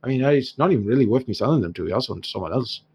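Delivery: Irish dwarf trader, mock-pained; aggrieved dwarf shopkeeper. Dwarf knocks off one gold, hammed-up Irish grievance. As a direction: haggle as though every coin hurts.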